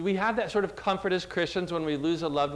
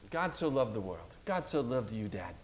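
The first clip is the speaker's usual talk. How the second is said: softer, hushed, as if whispering close by; retold soft whisper; 5 semitones lower, 7 dB quieter than usual. Son whispering scripture into his dying dad's ear, softly. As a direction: lean in and say it gently, softly. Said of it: "just whispering into his ear".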